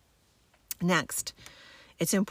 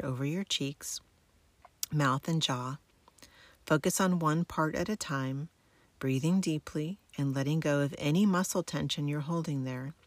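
sleep story narrator. Acted. Guides military sleep method relaxation.

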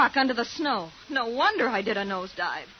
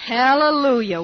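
louder joyful hallelujah; cheering; 9 dB louder than usual. Acted. Girl cheering as sleigh stops, loud and glad. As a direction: cheer the arrival.

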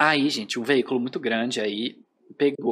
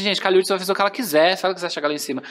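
excited fangirl gushing; our fangirl tone; 3 semitones higher than usual. Retold or imitated. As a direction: gush like a hyped fan friend. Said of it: "naquele tom nosso".

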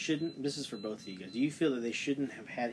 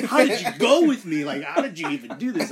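loud laughter through a higher quote; louder, higher, laughing retelling; 6 semitones higher, 11 dB louder, slower than usual. Real, not acted. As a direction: crack up while retelling her call. Laughing while quoting sister.

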